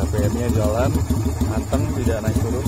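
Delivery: shouting over wind. Real, not acted. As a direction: speak up over the wind and motor. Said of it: "Anginnya kenceng banget".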